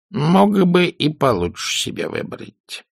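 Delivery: high, slow, frank grande dame; blunt imperious old lady. A narrator's reading. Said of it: "откровенно сказала бабуля".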